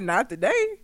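retold straight-faced reply; deadpan. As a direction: drop back to an unemotional answer. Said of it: "He was just like".

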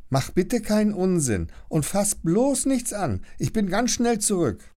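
high, hurried warning to little brother; don't touch anything; big-sister warning. Acted. Lilly warns little brother Leon, high and hurried.

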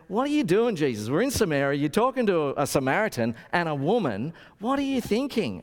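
indignant disbelief at Jesus; shocked disciples. Retold or imitated. Disciples scolding Jesus in shocked disbelief.

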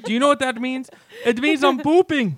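man in a high, mock-female voice; a man doing a woman's voice. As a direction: play a silly woman caller. Prank caller voice.

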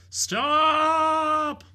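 high, loud cry of stop; shouted stop. Acted. Maura shouting at the hangman to halt the hanging, loud high cry. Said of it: "she shouted out".

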